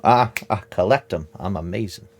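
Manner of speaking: high, loud braggart trader voice; boastful trader. Acted. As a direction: brag like a shifty merchant. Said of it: "And says".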